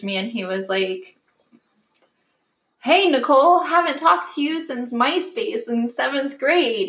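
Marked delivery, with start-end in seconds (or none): 2.8-6.9 mock creepy guy. Old classmate messaging her, mock sleazy sing-song. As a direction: ham up the overeager guy.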